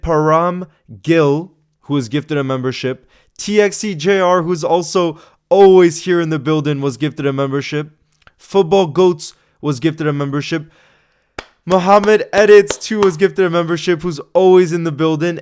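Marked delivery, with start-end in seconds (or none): 3.4-6.8 excited. Real, not acted. Hyping regular viewer. 11.7-15.4 excited. Real, not acted. Hyping regular viewer.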